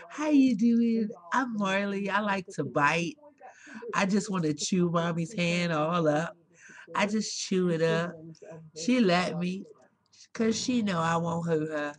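playful pet voice talking back; voicing the pet. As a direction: speak as the cheeky pet. Mom voices her pet Marley.

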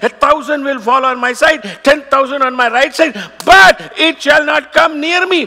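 quoted verse building from steady to a shout; scripture claimed aloud, ending in a shout; rising declaration. Shown as a demonstration. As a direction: build it up and shout the last line. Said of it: "for the word says".

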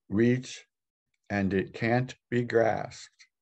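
measured reading of sacred verse, pausing after each phrase; contemplative scripture reading. Acted. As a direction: read it as wisdom to meditate on, leaving space around each line. Reads scripture aloud for meditation.

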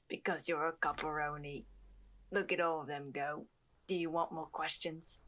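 partly whispered character voice; lightly voiced character, half whispered; odd character voice. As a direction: improvise an odd, taunting figure. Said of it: "I don't know what these voices are".

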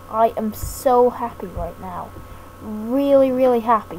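flat, unexcited "so happy"; deadpan happy. Real, not acted. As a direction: claim you're thrilled without sounding it. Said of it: "even if I don't sound it".

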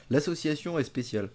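talking around mouthpiece; speaking while vaping; vape at lips. Real, not acted.

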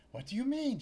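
high, loud startled female clerk; a clerk jolted to see him back; shop clerk voice. Acted. Clerk snapping at Larry, high and loud.

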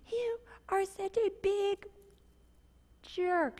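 a mild mock jab at her husband; wife muttering a mock insult, hushed; almost said. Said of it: "what almost came out of my mouth".

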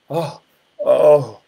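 short wordless groans; groaning. Acted. Preacher imitating Jesus groaning in the Spirit, groaning. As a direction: groan from within, without words. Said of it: "groaning in the Spirit".

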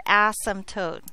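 "asymptote" with a weighted first syllable; stress on first syllable. Shown as a demonstration. Teacher jokingly setting a class rule, "asymptote" stressed at the start. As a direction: lean on the "as" in "asymptote". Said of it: "unnecessarily stress the first syllable".

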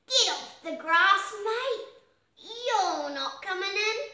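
loud, high little pig shouting back; cried out. A narrator's reading. First little pig shouts at the sheepdog, loud and defiant. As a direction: yell it defiantly from inside the shed. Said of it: "cried the first little pig".

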